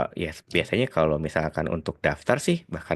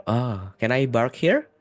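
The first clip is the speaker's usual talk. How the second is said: put-on "bark" with a B for the P, a light Arab accent, slow; imitating an Arab friend's P as B in "bark", mildly; 5 semitones higher, slower than usual. Teacher imitates an Arab friend asking to park, light Arab accent. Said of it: "P-nya tuh kayak bebek".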